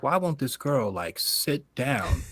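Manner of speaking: mock frustration, dragging out the last words; frustrated. Bandmate waiting on a flirty singer, retold frustration. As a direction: act out mild exasperation. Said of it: "I'm getting frustrated".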